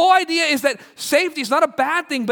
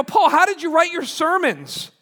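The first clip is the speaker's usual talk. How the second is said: reader marvelling at Paul, pitched up; amazed questioning; 6 semitones higher than usual. Retold or imitated. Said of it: "I go".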